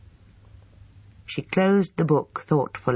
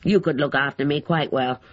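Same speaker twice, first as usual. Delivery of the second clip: lightly voiced grumbling old man; a hint of a cranky invalid grousing; old man complaining; 3 semitones higher than usual. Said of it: "complained Mister Crackenthorpe".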